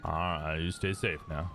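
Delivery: warm Southern send-off; put-on Southern accent, easy goodbye. Cop tells the medics to stay safe, in a Southern accent. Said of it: "I'm clearly English doing a Southern accent".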